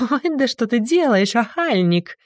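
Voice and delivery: high squeal of a coy barmaid; взвизг трактирщицы. A narrator's reading. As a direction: play the flirty tavern wife squealing. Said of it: "взвизгнула трактирщица". (кокетливый высокий взвизг трактирщицы)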